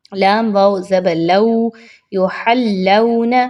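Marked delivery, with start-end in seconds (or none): 2.1-3.3 یحلون slowly with a lin waw, aw not oo; careful yuhallawn. Shown as a demonstration. Teacher giving the correct reading, slowly. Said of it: "درست انداز میں پڑھنا ہے".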